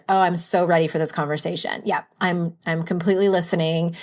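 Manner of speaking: mock-eager sarcasm; sarcastic. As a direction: fake being ready, dripping sarcasm. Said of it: "And then you're like".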